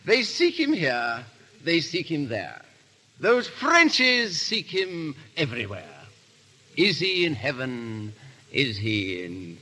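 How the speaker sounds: slow, sing-song poem recital; drawn-out, self-pleased rhyme reading; reciting his verse. Acted. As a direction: recite it like a proud amateur poet. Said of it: "I want you to hear my verse".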